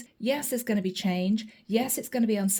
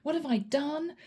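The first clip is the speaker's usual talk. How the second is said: panicking. Retold or imitated. Pisces panicking over an HR email, whispered alarm. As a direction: whisper your panic, then fret. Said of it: "this is you panicking".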